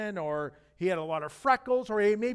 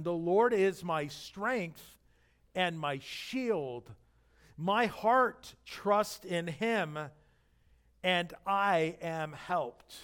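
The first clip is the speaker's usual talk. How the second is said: scripture reading; much slower than usual. Acted. Pastor reads a psalm slowly.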